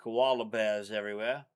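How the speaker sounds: put-on Aussie accent, friendly greeting; hamming up a laid-back Australian; mock Australian accent. Boyfriend taking an accent challenge, hamming up an Australian accent. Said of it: "from Australia".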